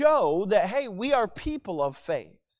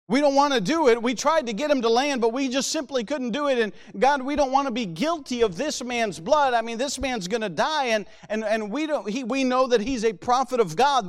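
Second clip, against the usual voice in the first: higher-pitched, mildly anxious plea; concerned pleading; 4 semitones higher than usual. Acted. Preacher voices sailors begging God not to punish them, mildly concerned. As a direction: plead your case as worried sailors, lightly acted. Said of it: "they're, they're concerned".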